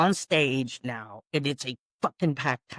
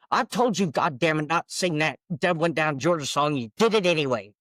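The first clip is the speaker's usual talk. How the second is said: retold scolding; 2 semitones higher than usual. Boss scolds singer for disobeying him, annoyed. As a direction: tell her off as an annoyed boss.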